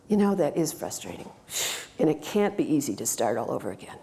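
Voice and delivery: meet her frustration gently; empathetic coach. Shown as a demonstration. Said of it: "how the conversation goes from a coach".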